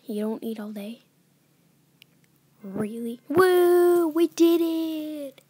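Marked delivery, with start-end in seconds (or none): 3.3-5.4 high, loud victory whoop; real whoop of relief and joy; excited cheer. Real, not acted. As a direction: celebrate surviving the night. Surviving the night.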